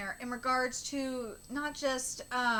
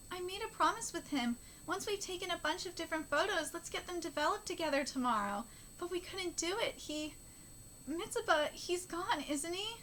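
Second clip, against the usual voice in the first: soft, higher mournful read; understated grieving manga dialogue; lightly voiced sad character; 5 semitones higher, 4 dB quieter than usual. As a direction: tell of the broken promise gently.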